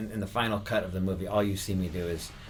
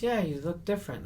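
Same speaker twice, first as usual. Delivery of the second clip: very high comic character voice; imitated character, pitched way up; Andy Kaufman; 10 semitones higher than usual. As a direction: observe it in a put-on high voice. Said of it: "staying in the Andy Kaufman character".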